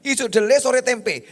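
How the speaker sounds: ordinary talk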